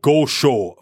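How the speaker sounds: lightly Canadian "go show". Retold or imitated. Host quoting his own intro to co-hosts, very Canadian. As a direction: say "go show" with Canadian long o vowels. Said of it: "very Canadian again".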